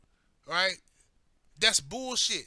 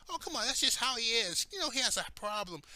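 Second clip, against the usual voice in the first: lightly put-on pleading voice; mocking coworkers; 3 semitones higher than usual. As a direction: mimic the excuse-makers. Coworkers excusing him, mocked.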